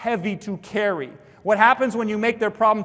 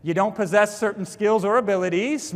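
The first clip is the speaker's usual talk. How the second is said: tiptoeing. Shown as a demonstration. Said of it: "I used to say it kinda like this".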